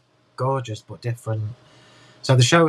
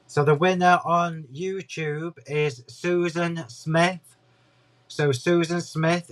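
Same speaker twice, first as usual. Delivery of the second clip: announcing; 4 semitones higher, slower than usual. Real, not acted. Announcing giveaway winner.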